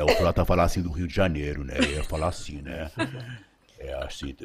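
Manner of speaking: low carioca mumble; Rio de Janeiro accent. Retold or imitated. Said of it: "do sotaque brasileiro era do Frota".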